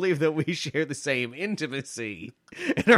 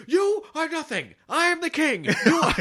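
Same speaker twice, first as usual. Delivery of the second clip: mock Ralph bluster; 14 semitones higher, 4 dB louder than usual. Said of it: "he goes, he's going".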